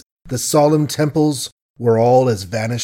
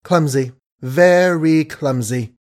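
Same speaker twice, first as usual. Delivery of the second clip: rebuking. Acted. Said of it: "she rebuked him".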